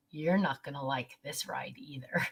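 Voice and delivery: mock whisper of a cheeky little boy; whispered warning. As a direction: whisper it like a kid sharing a naughty secret. Boy's cheeky warning retold.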